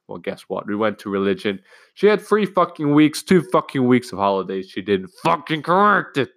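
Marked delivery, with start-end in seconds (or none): 1.9-6.3 high, loud exasperated rant; real indignation. Real, not acted. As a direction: vent in outrage at the teacher. Ranting about uncorrected test.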